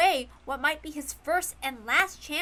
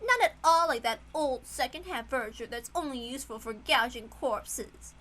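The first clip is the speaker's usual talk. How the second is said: cruel witch; 3 semitones higher than usual. Acted. Cruel witch mocks her servants.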